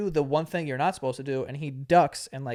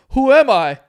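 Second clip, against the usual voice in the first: loud, high-pitched mock panic; hammed-up bewildered cry; fake amnesia; 9 semitones higher, 14 dB louder than usual. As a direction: wail it like a kid faking amnesia. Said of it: "pretends like he has amnesia".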